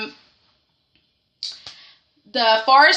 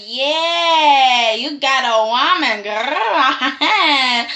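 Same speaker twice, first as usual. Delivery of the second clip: laughing tease; much slower than usual. Retold or imitated.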